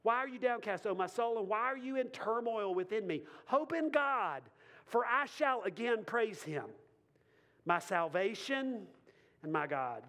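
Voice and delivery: rising fervent recitation; preacher reading Psalm forty-two aloud; scripture reading. Acted. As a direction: read the psalm with mounting fervor. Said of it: "Verse five".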